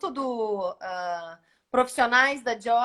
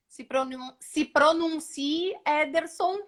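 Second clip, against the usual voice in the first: calling out; 3 semitones higher, slower than usual. Real, not acted. Calling the winner to respond.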